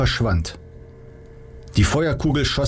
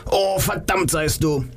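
mock cry; 7 semitones higher than usual. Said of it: "Sekunden später schrie er".

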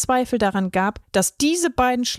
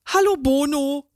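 higher, caught-out snake greeting; a sheepish hiss, caught red-handed; nervous hiss; 5 semitones higher than usual. A narrator's reading. Snake Nico greeting Bono after being caught, nervous higher hiss. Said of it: "zischte sie nervös".

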